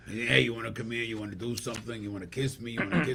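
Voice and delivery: mild imitation of a flirting guy; come-on gay guy voice. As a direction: play a pushy flirt, only half changing your voice. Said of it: "a gay guy that talks like this".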